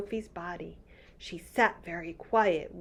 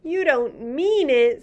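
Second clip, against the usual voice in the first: cried out; 7 semitones higher, 7 dB louder than usual. Acted. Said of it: "Sophie cried".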